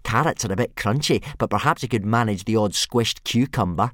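high, loud mockery; bully taunting Hiccup's friends. A narrator's reading. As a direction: rub it in with fake concern. Snotlout taunting.

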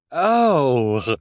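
high, haughty rich woman; snooty socialite Esme. Acted. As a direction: lilt it like a vain socialite. Esme speaks, snobbish.

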